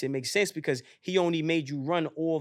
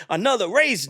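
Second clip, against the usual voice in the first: higher, mildly incredulous echo; incredulous question; 4 semitones higher than usual. Retold or imitated. Runner questions the voice, incredulous. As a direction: question it in mock disbelief.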